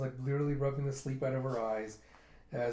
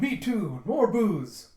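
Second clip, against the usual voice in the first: high, loud chiming-in holler; rowdy pirate shout; 8 semitones higher, 8 dB louder, much slower than usual. Retold or imitated. Second pirate joins the call for drink, rowdy shout. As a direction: shout along with the drinking crew.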